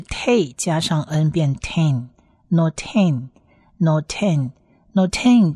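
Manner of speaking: te closed with n into ten, then noten repeated slowly; slow, separated noten, ending on a held n; model pronunciation. Shown as a demonstration. Teacher adds final nun for learners, carefully modelling te, ten, noten. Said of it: "前面的发音在后面加一个n".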